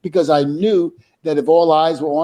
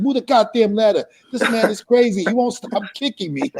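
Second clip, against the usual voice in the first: mock panic yell, pitched up high; retold panicked yell; 5 semitones higher than usual. Devon on the ladder yelling down to Edge in panic. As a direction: plead up high for the ladder to move.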